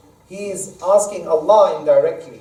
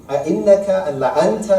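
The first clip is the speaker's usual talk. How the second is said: أَإِنَّكَ and لَأَنْتَ each said higher and pressed; emphatic particles; 4 semitones higher, 3 dB louder, much faster than usual. Shown as a demonstration. Teacher pointing out the double emphasis in the brothers' question. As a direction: lean on أَإِنَّكَ and then on لَأَنْتَ. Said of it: "emphasis as well".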